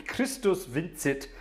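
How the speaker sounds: vincit with a "ts", vin-tsit, drawn out slowly; German Latin pronunciation. Shown as a demonstration. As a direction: announce it slowly as "VINT-sit". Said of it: "using German Latin".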